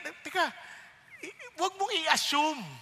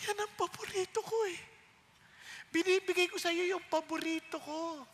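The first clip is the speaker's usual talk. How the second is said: surprised husband; 4 semitones higher, 7 dB quieter than usual. Retold or imitated. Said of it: "gulat yung lalaki".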